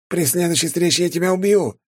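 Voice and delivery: громкий высокий крик на бегу; прокричать угрозу, убегая; крикнув на бегу. A narrator's reading. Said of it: "На бегу он крикнул". (крикнул на бегу)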